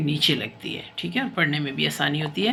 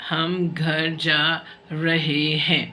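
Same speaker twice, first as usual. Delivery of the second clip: slow reading aloud; much slower than usual. Shown as a demonstration. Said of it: "teacher models reading slowly".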